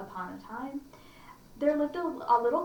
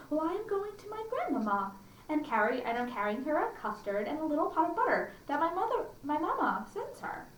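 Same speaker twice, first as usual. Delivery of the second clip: put-on child voice; 5 semitones higher than usual. Girl voiced in story.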